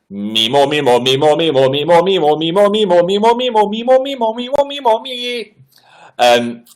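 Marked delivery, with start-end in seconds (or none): 0.1-5.5 chanted warm-up climbing steadily higher; vocal warm-up. Pretend. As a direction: start at usual pitch, slide up to very high. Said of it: "Do your warm-up".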